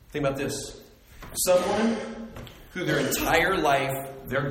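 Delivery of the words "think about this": softer, lower, stress on about; softer repeat. Shown as a demonstration. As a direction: say "Think about this" quietly, leaning on about.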